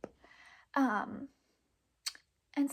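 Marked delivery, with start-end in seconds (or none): 0.0-0.2 barely audible, voiceless cry for help; strangled whisper of help; unable to scream. Retold or imitated. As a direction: mouth a mock scream with no voice. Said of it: "I couldn't scream".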